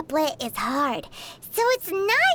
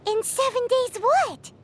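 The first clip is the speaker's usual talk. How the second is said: gasping suspense. Real, not acted. Gasps at the suspense.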